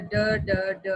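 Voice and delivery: "d" repeated as "duh, duh, duh"; isolated D sound. Shown as a demonstration. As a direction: sound out each "d" as a separate "duh".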